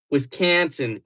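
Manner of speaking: Wisconsin accent with a flattened "can" in Wisconsin; hammed-up Wisconsin vowels; put-on Wisconsin accent. Shown as a demonstration. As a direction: try out a Midwestern accent on Wisconsin. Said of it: "Oh, no, it's that one".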